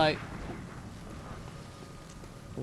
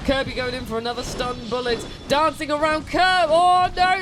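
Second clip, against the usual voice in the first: lively play-by-play commentator; sports commentary. Acted. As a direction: call the fight like a sportscaster. Live play-by-play of the fight.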